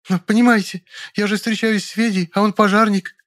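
high, frightened maid. Acted. Maid begs him not to call the police, frightened and high. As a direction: beg in a high scared voice.

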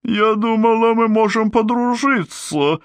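very high, silky purr. Acted. Glinda tells Mombi they could be friends, purring very high. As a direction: purr it with fake sweetness. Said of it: "промурлыкала волшебница".

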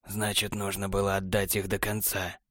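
low, soft, coldly indifferent; feigned indifference. A narrator's reading. Technar answering Borland's accusation, feigned indifference. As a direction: shrug it off, faking indifference. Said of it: "с напускным безразличием проговорил технарь".

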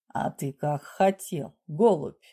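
low, slow, velvety condescension; mock tenderness. A narrator's reading. Raider to his victim, with tender condescension. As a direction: coo it slowly and low at the victim. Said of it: "ласково сказал Василий Андреевич".

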